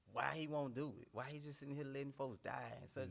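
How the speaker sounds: high, loud anguished plea; half-retold pleading outcry. Retelling crying out to God.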